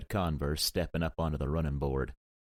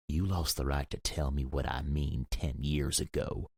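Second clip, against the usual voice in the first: cold anger. Acted. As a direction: spit it out slowly. Cold angry retort.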